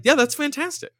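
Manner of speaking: high, over-the-top impressed; high mock-delighted agreement; mock enthusiastic approval. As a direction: cheer it on ironically. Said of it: "we were like".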